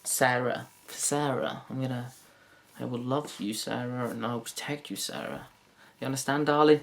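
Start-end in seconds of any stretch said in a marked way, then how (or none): none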